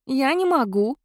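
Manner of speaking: cat spirit scoffs at the idea; Ignessa scoffing. A narrator's reading. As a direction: scoff it off lightly. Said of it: "хмыкнула Игнеса".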